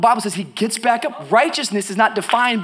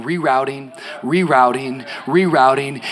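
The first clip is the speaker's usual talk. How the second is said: GPS voice; 5 semitones lower, slower than usual. Retold or imitated. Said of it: "that computer started saying".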